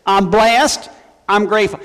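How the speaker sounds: lightly imitated Southern accent. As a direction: quote the mother-in-law with a touch of Southern. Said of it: "you gotta say it with a southern accent".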